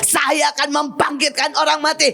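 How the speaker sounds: steady, unbroken proclamation; faith declaration. Shown as a demonstration. Preacher showing the congregation how to declare promises, steady proclamation. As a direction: declare each promise without letting the momentum drop. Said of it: "Saya bisa sejam seperti itu".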